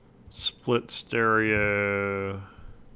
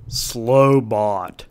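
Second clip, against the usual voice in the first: flat, clipped robot voice; 7 dB louder than usual. Shown as a demonstration. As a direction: speak like a machine. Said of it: "I'm gonna do a robot voice".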